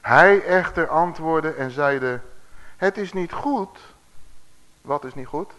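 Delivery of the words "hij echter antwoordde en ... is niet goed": slow, emphatic Bible reading; scripture reading. A narrator's reading. Preacher reading the answer to the congregation, slow and emphatic. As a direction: stretch the words out like a proclamation. Reads the Bible verse aloud.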